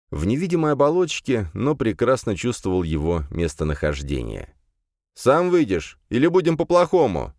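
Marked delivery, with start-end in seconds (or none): 5.1-7.3 high, loud menacing challenge; demonic language threat. Acted. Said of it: "на его демоническом языке".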